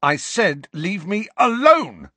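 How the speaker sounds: shouted. A narrator's reading. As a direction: yell it to get rid of him. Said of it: "Harry shouted".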